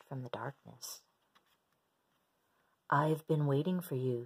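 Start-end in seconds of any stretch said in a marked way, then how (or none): 2.9-4.2 a hint of a deep octopus; lightly lowered wise voice. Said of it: "said the octopus with a deep voice".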